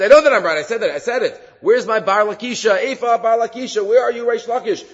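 a teacher acting a rabbi's grieving outcry; anguished outcry. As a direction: cry out for him as if he's gone for good. Rabbi Yochanan grieving for his friend.

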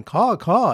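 high-pitched mimicked caws; bird caller's caw. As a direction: do a quick bird call, two caws. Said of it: "bird callers weeping and going".

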